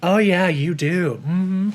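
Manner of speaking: slow, drawn-out "Oh, yeah, you do" with fake cheer; insincere reassurance. Shown as a demonstration. Vlogger demonstrating a fake compliment, slow and hollow. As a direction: stretch it out so it sounds like a lie. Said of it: "But sometimes you're like".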